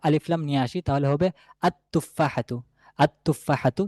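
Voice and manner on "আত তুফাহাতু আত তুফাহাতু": "আত-তুফাহাতু" with doubled t, no l; silent lam. Shown as a demonstration. Teacher adding alif lam, "আত-তুফাহাতু" with lam silent. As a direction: lean on the t in "আত-তুফাহাতু". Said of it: "লামের উচ্চারণটা নাই".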